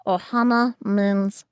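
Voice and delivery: cartoon creature impression, carefully placed; Stitch. Shown as a demonstration. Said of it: "We wanna hear you do Stitch".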